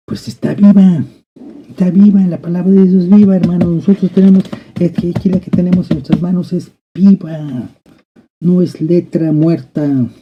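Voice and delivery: high, loud preaching cry; full-force preaching. Acted. Preacher to his congregation, loud and high. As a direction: proclaim it with everything you have.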